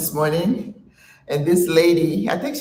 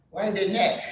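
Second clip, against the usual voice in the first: laughing; 4 semitones higher, 4 dB quieter than usual. Real, not acted. Laughing at the joke.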